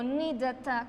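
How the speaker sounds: ni da, ta said with an added "ta"; wrong T ending. Shown as a demonstration. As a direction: tack a "ta" onto the end of ni da. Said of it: "con una ta". (ni da, ta mal dicho, con una ta añadida)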